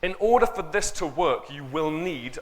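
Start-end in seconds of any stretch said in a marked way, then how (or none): 1.5-2.4 "need" pressed firmly and falling; stress on need. Shown as a demonstration. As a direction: lean hard on "need". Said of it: "and I stress the word need".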